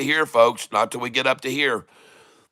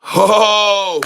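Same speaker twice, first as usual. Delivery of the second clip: surprised; 7 semitones higher, 5 dB louder than usual. Real, not acted. Stock suddenly spikes up.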